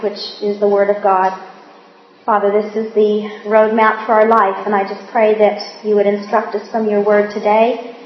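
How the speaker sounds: humble, reverent prayer voice. Acted. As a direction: pray earnestly before the group. Leads the group in prayer.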